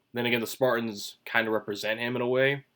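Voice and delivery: talking with gum in mouth; words around a piece of gum; chewing gum. Real, not acted. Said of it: "gum in my mouth".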